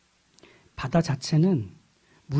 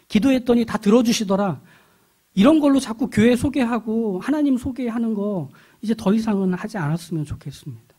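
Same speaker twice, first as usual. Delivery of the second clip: raised, forceful sermon voice; impassioned preaching; 7 semitones higher, 4 dB louder than usual. Real, not acted. Preacher telling congregation why God saves, impassioned preaching. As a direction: preach it high and loud, driving each phrase.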